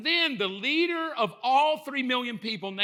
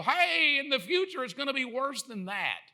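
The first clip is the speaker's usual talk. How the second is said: mock I-told-you-so; 5 semitones higher than usual. Noah warning his doubting wife, mock I-told-you-so. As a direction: call it out high like a smug prophet.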